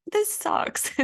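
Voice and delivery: put-on high, whispered childish pout. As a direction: sulk it out like a kid. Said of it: "pouting and you're like".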